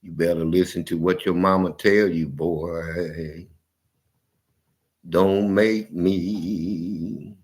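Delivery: low, slow threatening dad; father warns his son in a low voice; stern daddy. Retold or imitated. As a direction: drop low and drag out the threat. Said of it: "my daddy will jump in".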